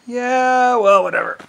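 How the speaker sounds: high, loud dismissive brush-off. Retold or imitated. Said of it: "That's why I'm like".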